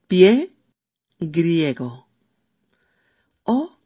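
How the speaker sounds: ordinary delivery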